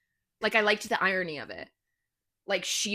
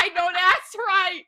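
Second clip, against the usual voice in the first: put-on Boston accent; 8 semitones higher, 6 dB louder, slower than usual. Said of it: "I broke into the accent".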